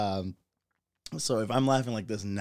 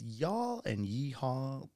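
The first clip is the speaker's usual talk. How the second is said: Texan drawl; 3 semitones higher, 5 dB quieter, slower than usual. Shown as a demonstration. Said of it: "y'all and yeehaw, man, when you hear that in Texas authentically".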